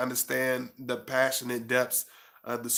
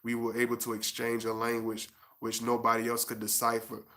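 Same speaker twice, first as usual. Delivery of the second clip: measured, even spoken-word recitation; poetic book reading; 4 dB quieter than usual. Acted. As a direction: recite it like an intimate poem, phrase by phrase. Resumes reading from own book.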